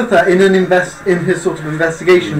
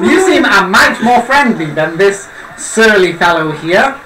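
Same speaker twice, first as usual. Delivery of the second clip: pointed formal jab. Acted. Tabitha repeats, louder, laughing.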